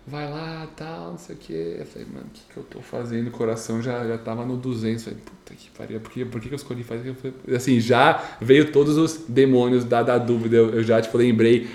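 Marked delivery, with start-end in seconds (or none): 2.1-3.3 hushed panic. Retold or imitated. Panicked thought before the speech. 5.2-7.2 whispered curse, then a quick hushed question; fast nervous muttering to himself; whispered panic. Retold or imitated. Panicked thought before the speech.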